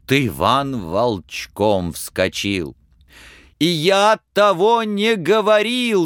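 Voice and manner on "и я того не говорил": high, loud protest; shouting. Acted. Ivan shouts back at the tsar, protesting. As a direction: cry out in denial. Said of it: "закричал он".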